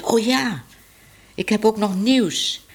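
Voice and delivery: eager call. Acted. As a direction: blurt out the news. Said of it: "riep ze".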